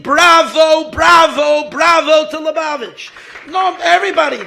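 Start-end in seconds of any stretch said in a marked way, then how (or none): 0.0-2.3 cheering crowd. Retold or imitated. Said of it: "the whole world is clapping".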